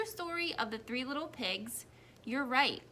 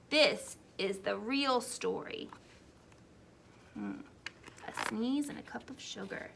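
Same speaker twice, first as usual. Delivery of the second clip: lightly voiced chatty wolf, a bit louder; a hint of a sly wolf pleading his case; wolf narrator; 6 dB louder than usual. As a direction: play a self-justifying wolf telling his side.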